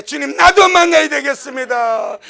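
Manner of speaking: loud, begging to meet the Lord; pleading cry. Retold or imitated. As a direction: stake your claim out loud. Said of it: "남들이 주님 만날 때".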